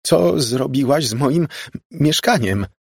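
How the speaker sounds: high, drawn-out cry of dismay; voice breaking. A narrator's reading. Margo confronts the girl about her flat, voice breaking. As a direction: cry out as the voice gives way. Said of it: "zawołała załamującym się głosem".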